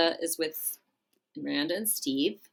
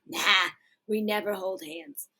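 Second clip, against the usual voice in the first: lightly put-on comic husband voice, a bit higher; hammed-up dismissive husband; Rodney Dangerfield; 4 semitones higher than usual. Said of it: "You sound like Rodney Dangerfield".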